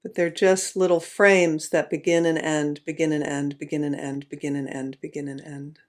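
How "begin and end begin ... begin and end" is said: repetitive, fading. Shown as a demonstration. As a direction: tick off each repeat like passing frames. Mimics film frames ticking by.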